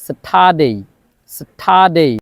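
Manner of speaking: স্যাটারডে with no R, said as sata-day; correct Saturday. Shown as a demonstration. Teacher giving correct স্যাটারডে for students to repeat. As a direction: model স্যাটারডে slowly for repeating. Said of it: "এই জন্যই আমরা বলি".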